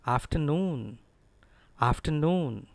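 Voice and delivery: afternoon as af-tuh-NOON, R dropped; careful model afternoon without an R; correct pronunciation. Shown as a demonstration. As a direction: let NOON in afternoon ring long and fall. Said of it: "It is actually afternoon".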